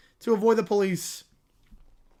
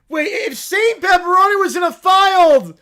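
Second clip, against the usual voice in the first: high, loud cartoon bear insisting; the bear making his point, loud; arguing little bear; 8 semitones higher, 10 dB louder than usual. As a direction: argue it like a cub who's sure. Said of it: "Little Bear is arguing".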